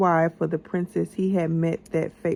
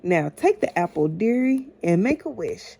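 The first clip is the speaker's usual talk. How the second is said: sly queen; 4 dB louder than usual. Acted. Queen tempting Snow White.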